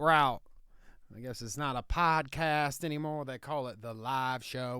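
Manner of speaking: Southern hick lawyer bit, laid on thick; redneck Southern lawyer. Acted. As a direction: play a proud country lawyer in a thick Southern accent. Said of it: "What's with this accent, Nicky".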